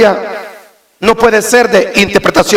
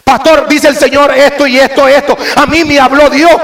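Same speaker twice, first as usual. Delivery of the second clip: mock boastful member; 6 semitones higher than usual. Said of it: "miembros que vienen diciendo así".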